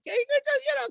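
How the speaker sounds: a high laugh breaking into the words; laughing at the picture in his head. Real, not acted. The rabbi laughing to his audience about the imagined kitchen clash.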